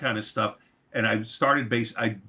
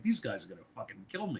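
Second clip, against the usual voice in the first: panicked thought; 10 dB quieter, faster than usual. Retold or imitated. Inner panic, sure he'll be killed.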